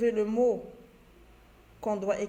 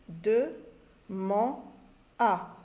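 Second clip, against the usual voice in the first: syllables called out; much slower than usual. Shown as a demonstration. Teacher reading syllables to pupils, called out. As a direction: call out each syllable. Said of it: "reading syllables to pupils".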